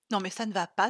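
outraged mother; offended. Acted. Mother scolding Chloé's incision idea, indignant. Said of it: "s'offusqua sa mère".

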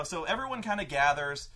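usual speaking voice

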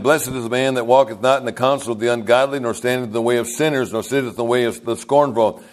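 solemn, measured reading of the psalm verses; scripture reading. Acted. Pastor reading Psalm 1 to the congregation, solemn. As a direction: read the verse with reverent weight.

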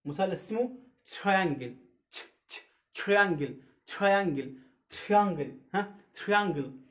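تريانجل with a clear "tri"; teacher modelling triangle; triangle drill. Shown as a demonstration. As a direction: repeat تريانجل carefully. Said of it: "تراي يا جماعة".

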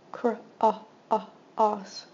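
segment by segment; sounding out cross. Shown as a demonstration. Teacher sounding out a word for students, segmented. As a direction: split cross into Cr, ah, os. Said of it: "short O sound".

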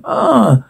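short high startled yelp of fright; frightened scream. A narrator's reading. Kids hear a creature's grunt in the dark basement, frightened yelp. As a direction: gasp out a yelp as if a monster just grunted nearby. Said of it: "Goonies frightened".

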